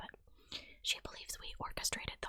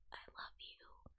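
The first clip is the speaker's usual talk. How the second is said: a tiny, much softer whisper; tiniest little voice; 11 dB quieter, slower than usual. Retold or imitated. Daughter to angry mother at the door, tiny whisper. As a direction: barely breathe it out, small and fragile. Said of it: "in the tiniest little voice".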